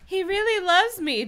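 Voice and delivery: put-on breathless lovestruck girl, pitched high; dreamy girl. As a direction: gush it like a smitten teen. Reading a swooning girl's thought.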